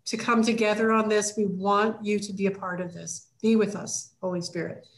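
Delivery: a short spoken prayer, slowed down; quick prayer. Shown as a demonstration. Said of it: "just to say".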